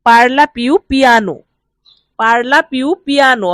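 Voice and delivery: very slow, careful Italian; deliberate teacher's dictation pace; slow model phrase. Shown as a demonstration. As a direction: spell each syllable out for learners. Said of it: "teacher models Italian phrase slowly".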